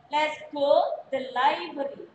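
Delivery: slow, careful "library" as "lai-bə-ri"; slow model reading. Shown as a demonstration. Teacher slowly repeats the phrase for students. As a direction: drag it out so students hear each syllable. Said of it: "tetapi library".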